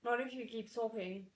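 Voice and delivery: gritted-teeth warning; through gritted teeth. Acted. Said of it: "through gritted teeth".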